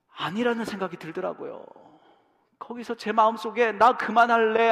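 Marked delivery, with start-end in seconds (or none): 3.7-4.7 pleading. Retold or imitated. Son's plea echoed.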